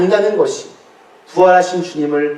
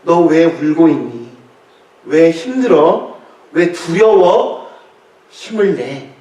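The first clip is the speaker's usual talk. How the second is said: tender comfort. Acted. Lord speaks to each believer.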